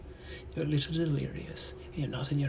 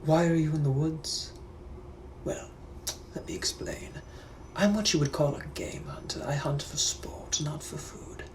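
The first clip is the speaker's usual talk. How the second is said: British gentleman. Acted. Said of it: "I'm also a British gentleman from the eighteen hundreds".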